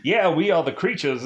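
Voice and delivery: hammed-up clever creature voice; brainy gremlin impression. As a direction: do a goofy intellectual gremlin, dropping the r's. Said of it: "anything that's to kinda come out of his mouth".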